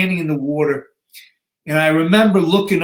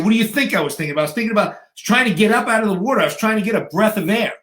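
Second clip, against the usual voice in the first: fast, higher-pitched acted exasperation; exasperated retort; 5 semitones higher, faster than usual. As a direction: blurt it back as if the answer is obvious. Exasperated retort to trainer, retold.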